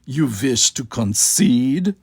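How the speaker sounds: slow, mocking question; the dictator taunting the captain, mocking. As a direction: taunt them, drawing it out. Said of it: "asked in a mocking tone".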